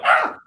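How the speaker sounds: short retold squeak of shock; startled squeak. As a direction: let out a startled little squeak. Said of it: "I, like, squeaked".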